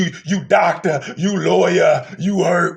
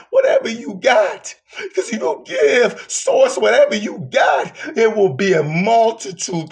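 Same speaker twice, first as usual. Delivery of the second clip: preaching shout; 4 semitones higher than usual. Real, not acted. Preacher shouting at the congregation to give whatever they have. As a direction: belt it to the back pew.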